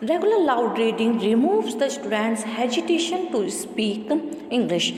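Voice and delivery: measured, deliberate textbook read-aloud; steady classroom reading voice. Acted. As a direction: read the passage out evenly for the class. Reads textbook passage aloud.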